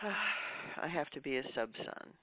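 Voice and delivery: mock resignation after a sigh; resigned. Voicing a settled, given-up attitude.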